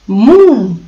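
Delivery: mild mock shout of a cow's moo. A narrator's reading. Cow rebuffing the ugly duckling, mildly shouted moo. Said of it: "shouted the cow".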